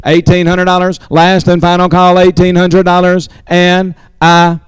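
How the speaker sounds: fast rolling auctioneer call. Acted. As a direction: rattle off the bids like an auctioneer. Auction bidding chant.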